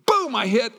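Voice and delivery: preacher reliving the tube crash, loud burst; loud impact exclamation. Retold or imitated. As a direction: slam the word boom like the crash. Tube slams into wave.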